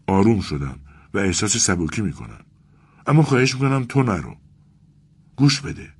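put-on a young clerk close to crying, begging his friend; tearful Vasya. Vasya, eyes full of tears, pleads with Arkady not to go. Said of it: "واسیا با چشمانی پر از اشک".

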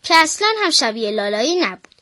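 put-on a girl reading a bedtime picture book aloud; children's story reading. Girl reading a bedtime story to listeners, storybook voice. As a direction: read it like a storybook for little ones.

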